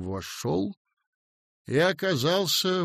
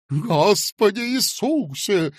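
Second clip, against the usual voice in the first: higher, slow gasped-out prayer; alarmed exclamation; 8 semitones higher, 5 dB louder, slower than usual. Acted. Fat man crossing himself in shock, alarmed exclamation. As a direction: cry out in pious alarm.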